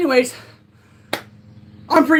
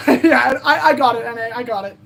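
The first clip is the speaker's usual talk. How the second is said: laughing. Real, not acted. Laughs at own slip.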